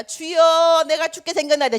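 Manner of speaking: loud, high wailing plea; whining cry to God. Retold or imitated. Believer bursts in at dawn prayer, loud wailing plea. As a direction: ham up a dramatic wail to the Lord. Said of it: "징징징거리는 거".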